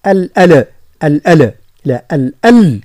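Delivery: الألا with the lam bounced; wrong qalqala. Shown as a demonstration. Teacher shows the wrong way, lam with qalqala. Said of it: "لا نقول".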